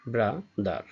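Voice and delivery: "ব্রাদার" broken in two with a pause between; two separated syllables. Shown as a demonstration. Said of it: "যে ওয়ার্ডে দুইটি syllable থাকে". ("ব্রাদার" দুই ভাগে ভেঙে উচ্চারণ)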